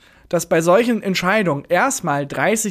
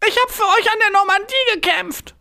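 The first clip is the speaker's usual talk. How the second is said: sehr hohe, klagende Koboldstimme; hoch und anklagend wie ein greiser Kobold; Kobold-Stimme. Acted. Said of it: "wie ich mir einen Kobold vorgestellt hab". (hohe, klagende Opa-Kobold-Stimme)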